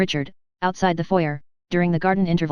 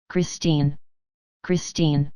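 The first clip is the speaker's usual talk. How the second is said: despairing call; 3 semitones lower, much slower than usual. Acted. Raoul calling for lost Christine.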